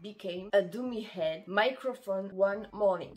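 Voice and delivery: English title read in a strong French accent. Real, not acted. French vlogger reading an English anime title, strong French accent. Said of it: "Désolée pour mon accent anglais".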